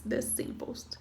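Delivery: whispered repeat. Shown as a demonstration. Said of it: "o mais simples".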